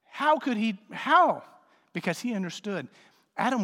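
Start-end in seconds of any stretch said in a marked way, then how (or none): 0.0-1.4 incredulous friend. Retold or imitated. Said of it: "he's like".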